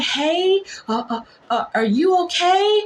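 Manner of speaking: high, careful and polite; polite nurse check. Retold or imitated. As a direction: sweetly ask through the door. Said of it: "we're like".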